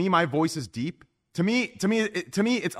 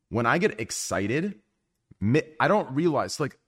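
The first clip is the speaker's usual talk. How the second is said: slow talk. Real, not acted. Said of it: "You talk in slow motion".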